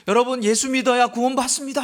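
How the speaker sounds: high-pitched, half-strength imitation of street shouting; retold yelling. Preacher retells his schoolboy self at a market crossroads, yelling. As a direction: call out to a crowd, re-enacting a young evangelist. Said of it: "막 고래고래 과음을 줬던".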